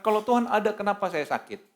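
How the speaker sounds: mild mock yelling; retold ranting at God. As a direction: imitate a sick person protesting to God. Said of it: "Dia teriak-teriak kata".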